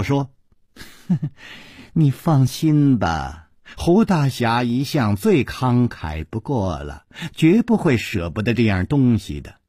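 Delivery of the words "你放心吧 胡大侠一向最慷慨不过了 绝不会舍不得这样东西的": a light laugh, then slow, smiling assurance; sweetly amused. Acted. Miss Ping smilingly vouches for Hu's generosity, sweetly amused. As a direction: smile through it, unhurried. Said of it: "平姑娘嫣然一笑".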